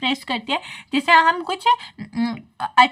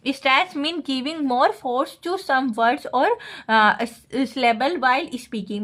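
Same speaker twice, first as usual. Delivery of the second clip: slow, careful reading aloud of a textbook line; slow dictation reading; much slower than usual. Acted. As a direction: dictate it slowly, word by word, for notes. Reads English definition to class. (धीमे-धीमे notes लिखवाने वाली आवाज़)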